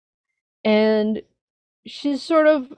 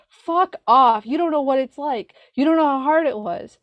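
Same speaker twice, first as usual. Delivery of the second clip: higher-pitched angry outburst, retold; a hurt teen telling her adult self off; angry inner teen; 5 semitones higher than usual. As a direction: voice a furious teenager lashing out. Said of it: "she was so mad at me".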